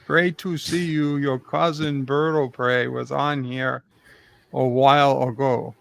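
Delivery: hammed-up Soviet accent, reading chat; a lightly put-on Russian accent; mock Russian accent. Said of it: "Why is everybody calling me Jamaica O'Prey?".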